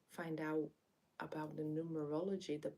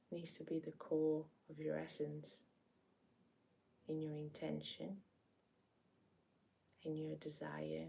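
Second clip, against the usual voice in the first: gentle meditation lead-in with long pauses; guided meditation. Acted. Meditation host inviting listeners to breathe and sense the body, guided meditation. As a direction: ease listeners in, unhurried, leaving space between phrases.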